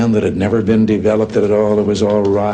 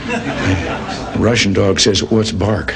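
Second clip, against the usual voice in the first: laughing through punchline; 3 semitones lower, much slower than usual. Real, not acted.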